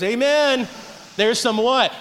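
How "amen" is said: God approving. Retold or imitated. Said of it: "God goes".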